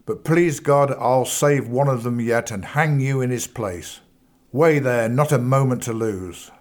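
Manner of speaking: angry accusation. Acted. Bradbury shakes his fist at Cowan, furious. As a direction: thunder it at the villain, then urge haste.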